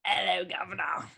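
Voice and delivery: mock Cockney greeting, nearly whispered; low British accent. Shown as a demonstration. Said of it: "What about, like, low British".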